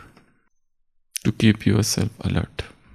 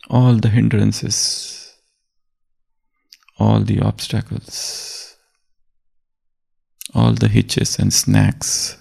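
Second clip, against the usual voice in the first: each all drawn out slowly and stressed; slow emphatic list; slower than usual. Real, not acted. Preacher listing obstacles for listeners, slow stress on all. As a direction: lean on every all, slow and deliberate.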